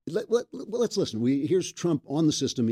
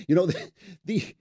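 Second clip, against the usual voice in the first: ordinary talk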